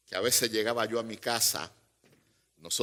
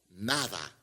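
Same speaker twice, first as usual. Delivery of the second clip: a mild, soft, tearful nada, lower and quieter; tearful wife; 5 semitones lower, 5 dB quieter than usual. Retold or imitated. Crying wife answers her husband with a quiet tearful nada. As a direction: let the word sink away through tears.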